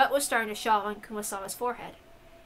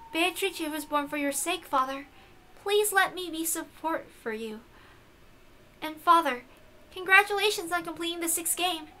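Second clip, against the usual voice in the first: stiff formal servant; 4 semitones higher than usual. Acted. Beato to her father Balor, lightly stiff and formal. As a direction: speak like a dutiful servant. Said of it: "stop talking like that".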